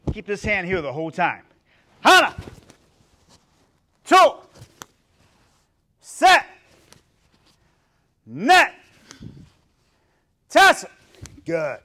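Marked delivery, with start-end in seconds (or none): 2.0-10.9 sharp, high martial arts count; shouted drill count. Shown as a demonstration. Instructor counting kicks for the class, shouted. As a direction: bark each number out on its own.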